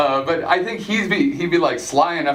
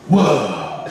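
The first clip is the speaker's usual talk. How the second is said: slow, lower surfer-dude whoa; drawn-out dazed Keanu whoa; lightly voiced Keanu; 5 semitones lower than usual. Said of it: "here's Keanu in every movie".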